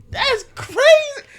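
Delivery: slow, very high-pitched squeal; incredulous outburst. Real, not acted. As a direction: stretch it out in a loud, high squeal of disbelief. Reacting to the denial of dating.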